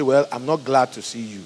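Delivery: low-key, unenthusiastic admission; unwelcoming. Acted. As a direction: mildly put out, without any excitement. What you really feel about visitor.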